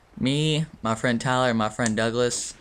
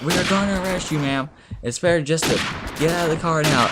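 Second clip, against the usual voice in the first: raised mock police order; higher retold voice of a cop giving orders; lightly imitating firm cop; 5 semitones higher, faster than usual. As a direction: play an officer insisting on compliance. Cop orders girl out of car.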